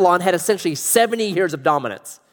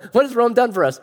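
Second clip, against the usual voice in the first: laughing movie quote; 6 semitones higher than usual. Retold or imitated. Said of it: "Was it The Life of Brian?".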